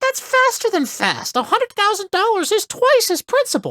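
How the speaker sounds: squeaky, very high, swooping voice. Reading a game line about money and interest: squeaky voice. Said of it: "I got really squeaky there".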